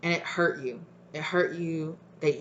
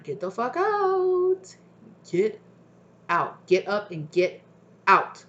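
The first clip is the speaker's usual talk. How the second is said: much higher, slow, insistent warning; urgent spirit guides; 3 semitones higher, slower than usual. Retold or imitated. Spirit guides pushing someone to leave the house, high and insistent. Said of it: "your spirit guides being like".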